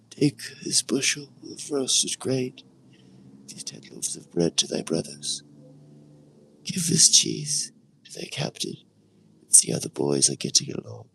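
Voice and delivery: a hint of an old father sending his son off; father Jesse. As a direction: give the boy his errands, fatherly.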